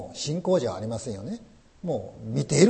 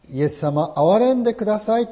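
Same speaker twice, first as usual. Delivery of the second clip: pleading cry; 6 semitones higher, 4 dB louder than usual. Retold or imitated. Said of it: "と願い求めた癩病人たちに".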